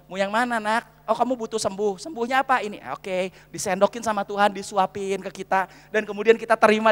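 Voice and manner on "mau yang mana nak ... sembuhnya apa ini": softer, lower, gently voiced parent; God as kindly father. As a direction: lightly play a father offering food to a child. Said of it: "Tuhan ambil sendok".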